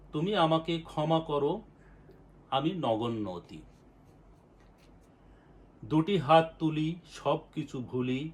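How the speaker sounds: devotional verse, each line lifted and then let fall; fervent recitation of a devotional poem. Acted.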